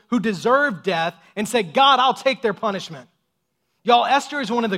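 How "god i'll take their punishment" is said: earnest offer. Retold or imitated. Jesus voiced offering himself.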